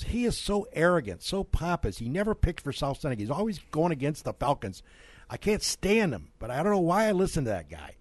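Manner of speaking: high, indignant retelling of a listener's rant; mock complaining lady. Host imitating the store lady's rant, high and indignant. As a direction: mimic the lady griping about him.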